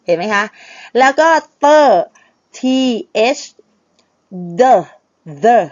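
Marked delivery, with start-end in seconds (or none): 1.6-5.6 "the" with tongue touching the teeth, said loud and separate. Shown as a demonstration. Teacher drilling the TH sound for students, "the" loud with tongue on teeth. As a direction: put the tongue to the teeth for each "the". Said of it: "มันต้องเอาลิ้นไปแตะฟัน".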